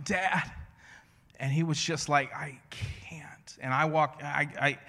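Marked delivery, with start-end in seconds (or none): 0.0-0.5 higher, imitated kid calling out; mock yell for Dad; retold child's yell. Toddler calling his dad from an overflowing toilet, mock yell. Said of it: "he's yelling". 2.3-3.6 mock small voice giving up; helpless little kid. Small son to dad at the flooded toilet, mock helpless.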